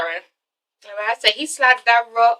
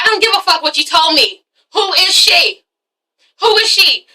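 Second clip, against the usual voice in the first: high-pitched, insistent questioning; acted jealous demand for answers; indignant demand; 5 semitones higher than usual. Girlfriend demanding to know who she is, indignant.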